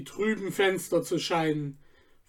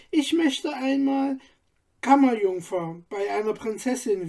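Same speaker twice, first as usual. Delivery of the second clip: put-on a lightly raised girl's voice, wistful and fading at the end; girl Sabine dreaming; 3 semitones higher than usual. Sabine tells Stefan her wish, lightly voiced dreamy girl. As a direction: voice a young girl daydreaming of castles, a light touch.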